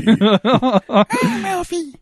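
slow, drawn-out gravelly growl; dark gravelly voice. Pretend. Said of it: "He's got a dark, gravelly voice".

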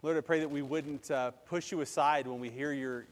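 earnest pastoral prayer, even and flowing; spoken prayer. Real, not acted. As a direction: lead a congregation in sincere prayer. Leads the congregation in prayer.

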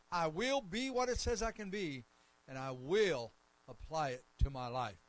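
loud, emphatic declaration for a congregation to repeat; faith declaration. Real, not acted. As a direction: lead them firmly, phrase by phrase.

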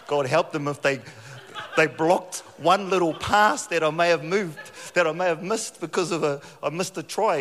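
loud, fast excited telling; rugby fan rage retold with a laugh; fired up. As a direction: tell it fired up, half laughing. Rugby rage retold, kids crawling.

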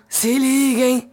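slow drawn-out put-on voice; lightly voiced celebrity impression. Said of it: "Ela nem forçou muito a voz".

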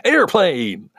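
exclaimed title, pitched high; hammed-up movie title shout; exclamation-point delivery. Shown as a demonstration. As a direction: belt it out like a title with an exclamation mark. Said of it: "supposed to say it like that".

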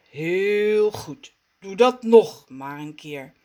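calm, steady coaching voice; reassuring rumble. Acted. Rommes calms the panicking Raf, reassuring. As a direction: soothe him gently. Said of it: "bromt Rommes geruststellend".

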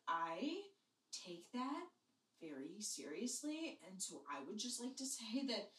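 low, soft, halting declaration; mock solemn suitor. Trevor answering Jamie's love, low mock-solemn delivery. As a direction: play a ponderous boyfriend, pausing between phrases. Imagined earnest reply from Trevor.

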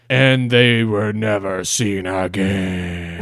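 slow, drawn-out storyteller closer; mock spooky ending. Host parodies how scary internet stories end, slow and ominous. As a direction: draw out the ominous last line.

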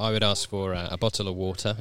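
"bottle of water" in a posh English accent. Shown as a demonstration. Asking for water in England, very posh accent. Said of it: "in my very posh accent".

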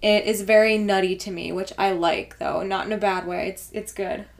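talking between sips; words around a sip of coffee; while sipping a drink. Real, not acted. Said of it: "Sorry, I'm sipping".

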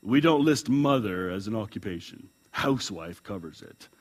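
emphatic. A narrator's reading. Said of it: "said the recorder emphatically".

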